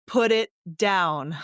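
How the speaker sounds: slow, firm mom command; stern, drawn-out mom order to a drunk stranger; best mom voice. Retold or imitated. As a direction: lay down the law like a mom. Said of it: "in my m-, best mom voice".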